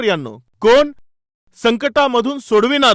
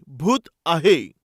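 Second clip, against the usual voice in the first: a slow, low, drawn-out "भूत आहे" in fear; frightened cry; 6 semitones lower, much slower than usual. A narrator's reading. Disciples seeing a figure on the sea, frightened. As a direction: let the ghost sighting chill you. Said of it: "घाबरून गेले व म्हणाले".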